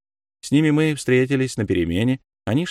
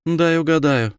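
smirking; 7 semitones higher, 4 dB louder than usual. A narrator's reading. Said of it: "усмехнулась княжна".

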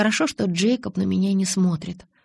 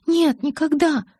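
higher, slow, tearful; tearful denial; 8 semitones higher, 4 dB louder, slower than usual. A narrator's reading. Bella denying to Jacob, higher and tearful. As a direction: draw it out near tears. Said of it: "сдерживая слёзы".

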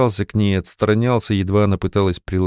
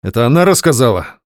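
nervous blurt; 3 semitones higher, 5 dB louder than usual. Acted. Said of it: "выпалил Матвей нервно".

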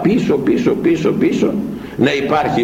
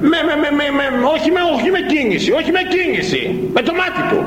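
pitched up high and urgent, piling up words; rising fervour; 11 semitones higher, faster than usual. A narrator's reading. Preacher stressing that God needs only a glance, fervent and high. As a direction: build to a fervent peak on the glance.

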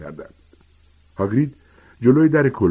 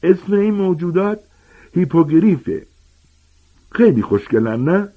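joyful, much higher and louder call; happy shout; 10 semitones higher, 4 dB louder than usual. A narrator's reading. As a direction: shout it out, delighted with his beasts. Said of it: "با خوشحالی ... فریاد زد".

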